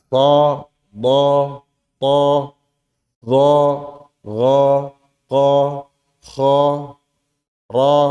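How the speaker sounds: THA, DHA, GHA, KHA, RA with thick open vowels, lips unrounded; clear heavy letters. Shown as a demonstration. Teacher modelling heavy letters, THA, DHA, RA clear and unrounded. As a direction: say THA, DHA, RA one by one, clearly, without pouting. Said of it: "Bacanya jelas".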